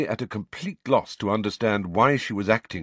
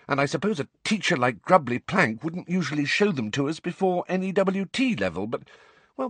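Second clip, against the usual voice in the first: high-pitched student, warming to the subject; earnest schoolgirl; 8 semitones higher than usual. A narrator's reading.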